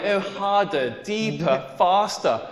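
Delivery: lightly imitated bedroom urging; understated mock-sultry commands, spaced out; dirty talk. Woman urging on her lover in bed, dirty talk. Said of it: "she started talking dirty back to me".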